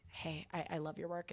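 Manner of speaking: soft, quick shy compliment; said lightly. Retold or imitated. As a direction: toss it off softly in passing. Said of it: "lightly was like".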